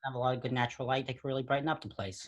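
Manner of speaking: put-on museum recording in a New York accent; casual put-on New York accent; thick New York accent. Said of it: "a super thick New York accent".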